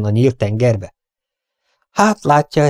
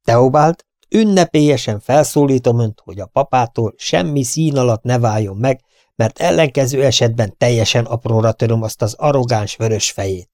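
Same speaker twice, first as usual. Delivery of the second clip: quoting the son. Retold or imitated. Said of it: "Azt mondta".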